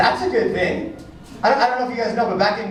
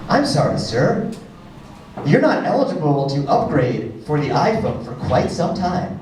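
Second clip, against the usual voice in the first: mock apologetic store clerk; 5 semitones lower than usual. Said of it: "They said".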